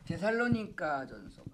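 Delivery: very soft, under the breath; murmured to self. Real, not acted. Preacher finding the Bible passage, murmured to self. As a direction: say it quietly while looking it up.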